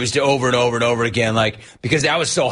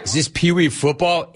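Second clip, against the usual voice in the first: incredulous shout; 3 semitones higher than usual. Real, not acted. Host mocks the team cheer.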